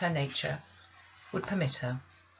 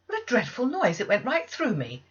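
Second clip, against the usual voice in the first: high, loud and startled; shocked exclamation; 6 semitones higher, 5 dB louder than usual. Acted. Maid rushing in after the scream, loud and shocked. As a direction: cry out as if jolted by the noise. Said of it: "exclaimed Abbott".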